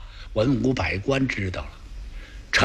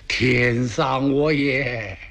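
mild crying lament; much slower than usual. Acted. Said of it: "醒过来之后是接茬哭啊".

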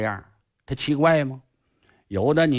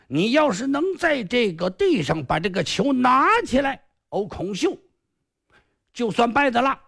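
a lightly raised, smug villain's voice; boastful sly sorcerer; 10 semitones higher than usual. Acted. Sorcerer Kong Xiu boasting to the hero, smug and a bit higher. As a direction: crow over the island like a cocky magician.

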